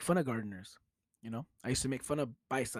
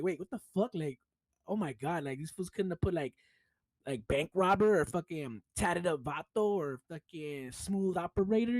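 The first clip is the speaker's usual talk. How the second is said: higher-pitched exasperated complaint; retold indignation; 4 semitones higher than usual. Landscaper retelling his anger at the paperwork, exasperated. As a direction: gripe as if mildly outraged. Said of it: "mad as fuck".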